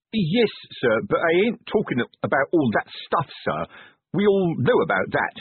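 a lightly voiced plodding old copper; worried sergeant reporting trouble. A narrator's reading. Sergeant warning the Duke about the dwarfs, lightly voiced and uneasy.

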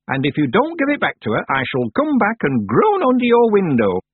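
put-on high, loud scolding old woman; shrill-free stern crone, loud and high; old witch scolding. A narrator's reading. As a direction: lay down the law like a cranky old witch. Miss Treason scolds from the hole.

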